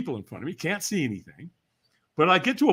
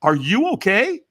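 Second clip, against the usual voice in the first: higher, louder puzzled question; raised-pitch check on someone, puzzled; puzzled concern; 5 semitones higher, 8 dB louder than usual. Retold or imitated. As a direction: ask it like a baffled onlooker. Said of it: "with a puzzled look on his face, and he's like".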